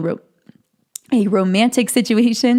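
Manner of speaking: voice briefly cracks on ro-. Speaking to an audience, voice cracking for a second. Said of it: "I had a voice crack there for a second".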